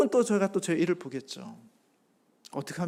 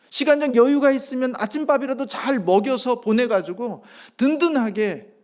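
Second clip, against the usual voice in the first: loud, high impassioned sermon voice; fervent preaching; 6 semitones higher, 8 dB louder than usual. Acted. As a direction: preach it out, building conviction. Preaching at full force. (열정적인 설교 톤)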